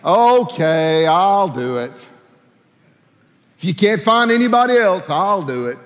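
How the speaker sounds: half-hearted offer, sagging at the end; reluctant mock acceptance. Shown as a demonstration. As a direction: give in as if nobody else will. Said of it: "did he say it like this".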